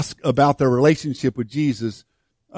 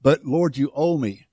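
entitled attitude. Retold or imitated. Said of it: "I say it in attitude".

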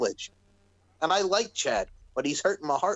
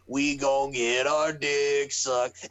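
slow drawn-out yell; 3 semitones lower, much slower than usual. Retold or imitated. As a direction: drag it out, low and slow. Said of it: "he friggin' just yells out".

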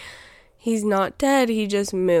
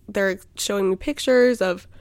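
yawning. Real, not acted. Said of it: "sorry, I'm yawning".

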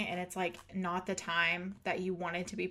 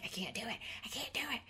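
small soft protest, rising higher; reluctant pleading; 3 semitones higher, 8 dB quieter, much faster than usual. Retold or imitated. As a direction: plead under your breath, imitating panic. Reluctant plea to pushy sister.

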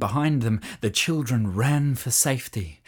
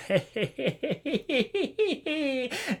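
high, soft cackling witch laugh; witch's victorious cackle; 12 semitones higher, 6 dB quieter than usual. A narrator's reading. Witch cackling over the trapped children. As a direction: cackle with glee at catching them. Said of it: "chuckling with victory".

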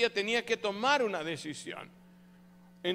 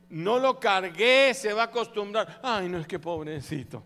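fretting mother; 3 semitones higher, 9 dB louder than usual. Retold or imitated. Mother torn over crying baby.

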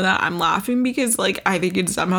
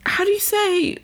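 affected how do you say; 13 semitones higher than usual. Pretend. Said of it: "oh, let me stop".

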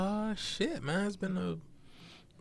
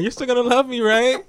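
high pleading voice; 12 semitones higher, 7 dB louder than usual. Pretend. Acting plea to wife.

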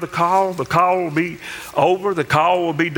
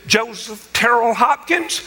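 slow, higher-pitched full-name summons; mother calling sternly; 4 semitones higher, slower than usual. Retold or imitated. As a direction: lightly imitate mom calling her child home. Mom calling child by full name.

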